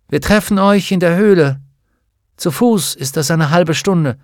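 commanding witch. Acted. Witch directing children to the cave, firm and commanding.

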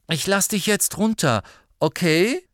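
Harry voice. A narrator's reading.

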